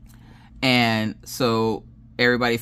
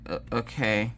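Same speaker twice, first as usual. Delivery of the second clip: softer, hesitant imitation of a child; 6 dB quieter than usual. Daughter agrees to help cook, hesitantly. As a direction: give in reluctantly, quietly imitated. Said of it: "she's very hesitantly starts cooking".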